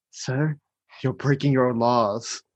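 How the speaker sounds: subdued, deferential aide; quiet, measured reminder to a superior; Grimsley. Acted. Grimsley reminding his boss of the law, quiet measured voice. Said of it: "then Grimsley reminds him".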